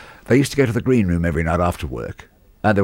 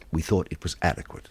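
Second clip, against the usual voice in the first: talking down his nose; 5 dB quieter than usual. Retold or imitated. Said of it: "Still talking down his nose".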